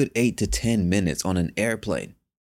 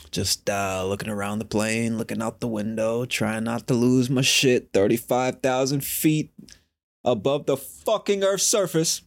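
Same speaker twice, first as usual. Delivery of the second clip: suppressed panic; 3 semitones higher than usual. Retold or imitated. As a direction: hold the panic in as the pitch creeps up. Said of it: "panicking on the inside".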